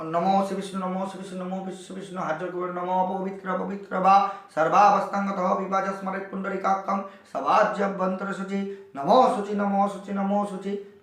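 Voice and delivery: level-toned Sanskrit prayer chant; mantra recitation. Shown as a demonstration. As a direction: recite the purification mantra on an even note. Recites purification mantra for pupils. (মন্ত্র পাঠের একটানা সুর)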